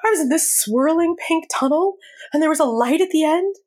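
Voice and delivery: high, tearful-sounding retelling; retold tearful account. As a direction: act out telling it through tears. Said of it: "I'm crying, you know".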